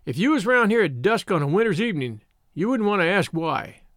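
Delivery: a hint of a rustic countryman telling his tale; understated rustic storyteller; lightly voiced shepherd. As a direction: lightly play a country shepherd recounting events. Shepherd warns the boys.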